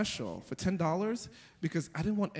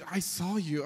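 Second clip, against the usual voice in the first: imitated deadpan kid. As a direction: say it with no expression at all. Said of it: "deadpan tone".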